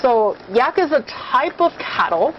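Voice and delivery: talking while chewing; words round a bite of yak; mouth full. Real, not acted. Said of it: "Sorry, I'm chewing".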